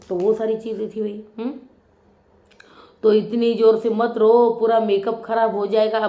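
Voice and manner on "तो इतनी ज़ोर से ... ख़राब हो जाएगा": quoting the brother. Retold or imitated. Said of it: "भाई बोल रहा है भाई अमितेश".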